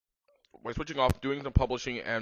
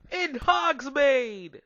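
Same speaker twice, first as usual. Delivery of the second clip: mock whisper; 8 dB louder, much slower than usual. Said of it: "Satan whispered".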